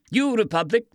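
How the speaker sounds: lightly voiced surprised question; a hint of surprise on the question; mild surprise at the accent. A narrator's reading. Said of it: "clearly surprised".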